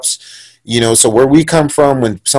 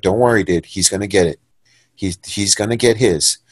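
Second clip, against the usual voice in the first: low, soft retold promise; understated menace, said softly; quiet assurance; 5 semitones lower, 6 dB quieter than usual. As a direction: reassure him quietly, with payback in mind. Retold calm vow of payback.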